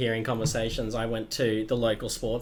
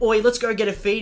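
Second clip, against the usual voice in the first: put-on louder, higher old bloke; a hint of an old regular inviting his mate to eat; old man calling; 9 semitones higher, 5 dB louder than usual. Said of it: "the other guy was like".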